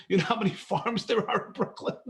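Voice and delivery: asked again through a real laugh. Real, not acted. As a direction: laugh at the absurd idea of Brooklyn farms. Repeats question while laughing.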